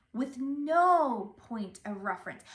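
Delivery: NO point of reference, first word stressed; emphasis on NO. Shown as a demonstration. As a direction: hit the word NO hard. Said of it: "you have the emphasis on different words".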